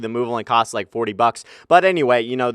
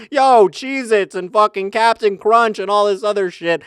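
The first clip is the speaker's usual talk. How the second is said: high, loud-ish, drawn-out mock enthusiasm; acted excitement; 9 semitones higher, 4 dB louder, slower than usual. Shopper spotting Cheez-Its in the store, hammed-up excitement. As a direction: play up being thrilled by junk food.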